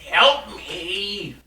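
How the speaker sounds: high little voice crying for help; tiny trapped voice. Acted. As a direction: squeak out a small call for help. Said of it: "a little voice".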